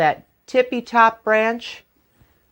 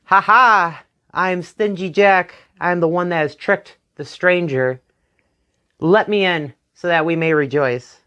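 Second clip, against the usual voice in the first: boastful Jack. Acted. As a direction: crow about your win.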